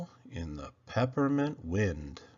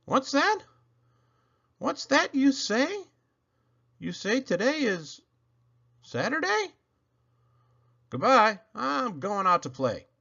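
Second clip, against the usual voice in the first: sudden excitement; 9 semitones higher than usual. Acted. Sick child learns it's Saturday, suddenly overjoyed. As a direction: snap out of the sickness with delight.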